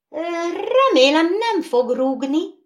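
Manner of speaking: high, worried fretting; nervous. Acted. Doll worried about riding the horse, nervous. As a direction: fret that the horse kicks. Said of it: "meglehetős idegesen".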